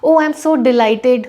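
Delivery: slow, lightly glad example read; a hint of delight. Shown as a demonstration. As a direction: show how to say it when pleased. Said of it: "आप generally बोलेंगे".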